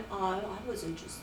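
soft, slow mocking echo of his friend; mocking imitation. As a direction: mimic him in a prissy backpedal. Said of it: "So now you are so fake".

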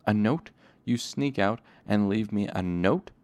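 angry hiss. Acted. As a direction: scold him in a half-voiced angry hiss. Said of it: "he hissed angrily".

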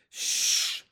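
sharp hushed shh; whispered shush. A narrator's reading. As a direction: hush them urgently in a whisper. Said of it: "James whispered back".

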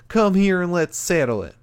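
wrestler's challenge in an imitated Cameron accent; Cameron's accent. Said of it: "Mark braved Cameron's and Pete's accent".

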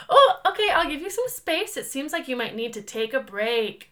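high, placating counsellor voice easing down; mock-soothing, start high and settle gently; therapist voice. Wife backing off from husband, still in therapy voice. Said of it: "I started talking like this".

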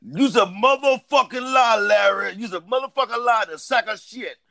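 slow, high mock scolding; mock accusation. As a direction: stretch out the accusation theatrically. Mock-scolding Larry in banter.

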